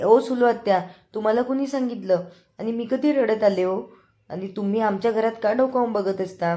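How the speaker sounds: indignant rebuke. Retold or imitated. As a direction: demand why she spies on them. Avani confronts snooping aunt. (चिडून आत्याला जाब विचारणे)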